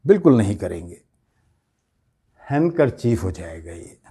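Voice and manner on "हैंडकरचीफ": "हैंडकरचीफ" as HAN-kar-cheef, no d; correct pronunciation. Shown as a demonstration. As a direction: drop the d in "हैंडकरचीफ". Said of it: "डी पर stress नहीं करेंगे".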